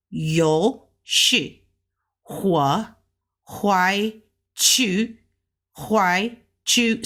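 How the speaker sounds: syllables with tones, huai rising; Mandarin phrase. Shown as a demonstration. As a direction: read the phrase slowly with tones. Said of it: "we got the third tone".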